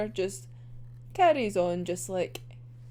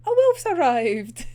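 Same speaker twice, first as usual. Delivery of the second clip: dramatic announcement; 5 dB louder than usual. Retold or imitated. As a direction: announce the wolf grandly. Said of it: "And it's like".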